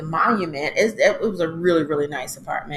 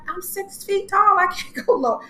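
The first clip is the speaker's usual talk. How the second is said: mock protest; 11 semitones higher than usual. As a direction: whine it through a laugh. Tall woman protesting squat depth.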